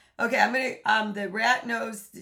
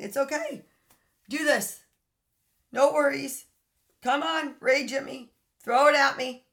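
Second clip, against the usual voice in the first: higher, inviting mock permission; mock enabler voice; 3 semitones higher than usual. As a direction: lightly play the partner who invites abuse. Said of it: "You are basically saying".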